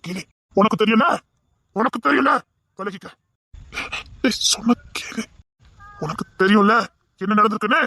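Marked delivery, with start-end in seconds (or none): 4.2-5.2 slow, urgent whisper. Acted. Friend holding back the drunk man, urgent whisper. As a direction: hush him so nobody hears.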